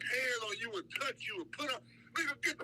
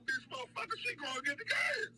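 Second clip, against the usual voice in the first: defiant yell; 11 semitones higher than usual. Retold or imitated. Retorts to cop defiantly.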